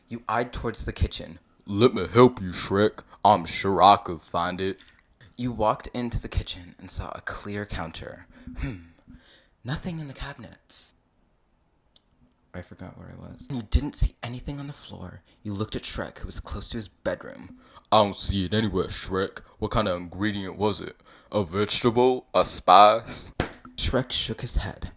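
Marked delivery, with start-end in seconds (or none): 1.7-4.8 loud, put-on character voice; eager helpful visitor. You offering to help Shrek search, eagerly. 17.9-23.3 loud put-on questioning voice; puzzled searching visitor. You asking Shrek about the ingredient, puzzled.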